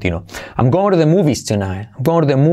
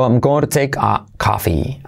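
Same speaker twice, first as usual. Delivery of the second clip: slow model. Shown as a demonstration.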